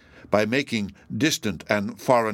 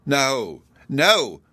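incredulous exclamation; 3 semitones higher, 4 dB louder than usual. A narrator's reading. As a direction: cry out in disbelief. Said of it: "exclaimed Hepzibah incredulously".

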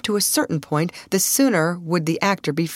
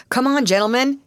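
raised, higher rallying call; rally the men to follow; 8 semitones higher, 4 dB louder than usual. A narrator's reading. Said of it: "he called to the male members".

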